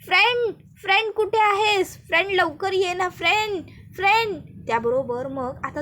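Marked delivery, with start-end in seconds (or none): 0.1-4.4 calling out. Acted. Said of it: "पूजा इकडनं ओरडतच असते".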